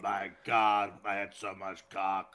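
put-on drunk Lindsay Lohan. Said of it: "sounds like Lindsay Lohan in a bender".

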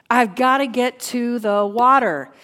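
forceful preacher's cry of longing; desperate insistence. Acted. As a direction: drive it home like a desperate need.

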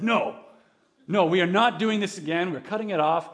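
mock-outraged parent refusing; firm refusal. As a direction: put your foot down, exasperated. Acts out parent refusing the song.

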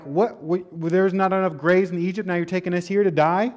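mock sarcastic complaint. Retelling Israelites mocking Moses about graves, sarcastic. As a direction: throw it back at Moses with sarcasm. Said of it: "This was being sarcastic".

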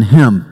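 him said with weight and falling; stress on him. Shown as a demonstration. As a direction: lean on the word him. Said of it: "we gotta put the stress in the right place".

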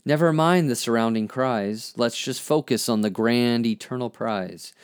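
measured spoken-word poetry reading; poem recitation. Acted. Reads own poem aloud.

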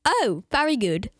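put-on child's playful English accent. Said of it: "can you do your English accent for us?".

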